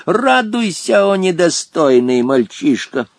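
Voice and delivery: drawn-out, imperious proclamation; exclaiming old genie. A narrator's reading. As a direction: start high and slow, announcing to the boy. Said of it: "воскликнул незнакомец". (властно и протяжно провозглашая)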